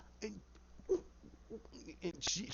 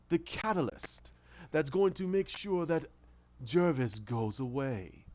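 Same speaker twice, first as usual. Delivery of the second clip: sinister Hatter. Retold or imitated. Hatter taunting Alice.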